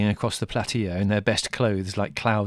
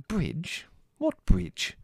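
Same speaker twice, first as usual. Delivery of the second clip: high, puzzled double take; mother baffled by the news; bewildered; 9 semitones higher, much slower than usual. A narrator's reading.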